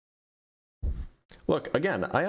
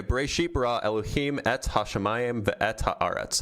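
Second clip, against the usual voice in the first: Hebrew read in a non-native accent; self-confessed terrible Hebrew accent. Real, not acted. Reader gamely tries Genesis for Black Jesus, terrible Hebrew accent. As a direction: recite Hebrew in a clumsy, unpractised accent. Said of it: "That was a terrible accent".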